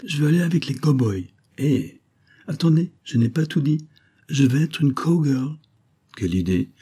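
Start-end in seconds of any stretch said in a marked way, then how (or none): 0.0-5.6 put-on eager, higher-pitched child; little girl. A narrator's reading. Girl asks to join the cowboys, eager little girl voice. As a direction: pipe up as an insistent little girl.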